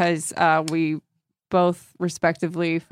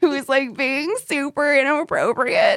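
high-pitched tipsy confession; giddy; 8 semitones higher than usual. Real, not acted. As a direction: gush it out giddily.

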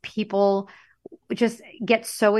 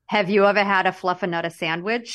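Massachusetts accent with "fluffanutta". Shown as a demonstration. Host quizzing co-host on sandwiches, Massachusetts accent. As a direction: ask in a broad Massachusetts accent. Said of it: "in my mass".

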